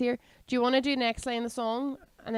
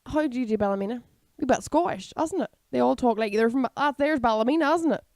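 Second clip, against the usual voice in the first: a hint of a dithery Ballymena woman; mild Ballymena accent, confused; 4 dB louder than usual. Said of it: "a confused Ballymena woman".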